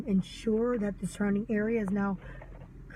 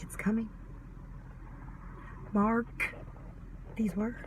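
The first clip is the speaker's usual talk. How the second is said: hushed warning, softer; ominous whisper; 8 dB quieter, slower than usual. Acted. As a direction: whisper it like a prophecy.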